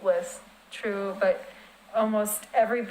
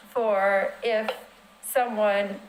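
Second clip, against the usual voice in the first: muffled voice, mouth covered; talking through a hand over the mouth; much slower than usual. Real, not acted. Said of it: "sorry, I'm muffled".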